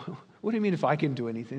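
quick, mildly incredulous retort. Acted. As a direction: throw the doubt back in a rapid question. Jesus retorts to father's doubtful plea.

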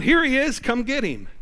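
hammed-up shout handing him over; mock betrayer's call. Pastor voicing Judas betraying Jesus, calling out loudly. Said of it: "You got one of them going".

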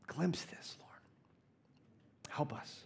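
soft unvoiced plea to the Lord; hushed whispered petition; whispered prayer. Real, not acted. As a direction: breathe the prayer, barely audible.

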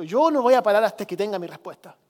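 imitated stubborn refusal, bursts of emphasis; insistent. Preacher voices blind man refusing to stop, insistent and emphatic. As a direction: insist like someone who will not be silenced. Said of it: "De insistir y persistir".

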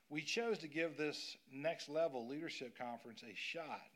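normal talking voice

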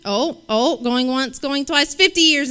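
going once going twice call; auctioneer. Pretend. Auctioneer call for longest marriage.

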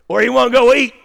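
Mississippi drawl. Retold or imitated. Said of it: "that's how we do it in Mississippi".

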